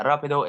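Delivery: "rápido" starting on an unrolled English R; untrilled English R. Shown as a demonstration. Learner showing the mistake, "rápido" with English R. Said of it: "it's not".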